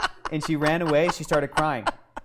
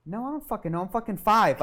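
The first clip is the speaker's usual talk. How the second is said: exasperated protest; 6 semitones higher than usual. Retold or imitated. Child's exasperated inner protest.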